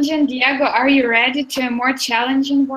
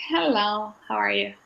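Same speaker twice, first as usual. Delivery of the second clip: low-key, softer hello from a laid-back bear; easygoing bear, voice dropped softer; relaxed greeting; 4 semitones lower, 6 dB quieter than usual. Acted. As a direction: greet softly and lazily, totally at ease. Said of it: "He's so relaxed".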